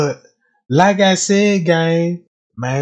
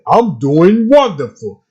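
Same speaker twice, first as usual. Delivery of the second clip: a hint of an eerie robotic spirit; lightly voiced robot spirit; mock alien voice; 4 semitones lower than usual. Mocking the jukebox spirit voice, lightly robotic. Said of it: "sound like the goddamn alien".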